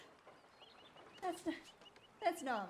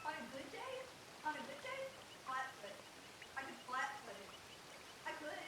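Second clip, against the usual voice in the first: quieter murmured boast; hushed; 11 dB quieter, faster than usual. Acted. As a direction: say it half to yourself.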